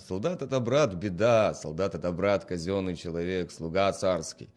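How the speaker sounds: put-on loud, maudlin drunken praise; drunk peasant. Drunk man to his friend Seryoga, loud and maudlin. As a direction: slur it out fondly, loud.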